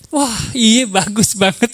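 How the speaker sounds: hammed-up compliment to the wife; retold admiring praise. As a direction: praise as if suddenly amazed. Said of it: "Saya puji aja gitu ya".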